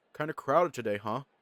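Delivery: ordinary delivery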